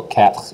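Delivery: "cat" with a throaty rolled R after the t; "cat" ending in a rasped "khr"; rolled R quatre. Shown as a demonstration. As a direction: add a French R to the end of "cat". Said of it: "you're actually gonna roll that R".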